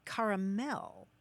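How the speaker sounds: caramel as CAR-uh-MEL, three syllables; caramel with broad first vowel. Shown as a demonstration. Host listing US variants for caller, caramel as CAR-uh-MEL. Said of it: "some people actually say".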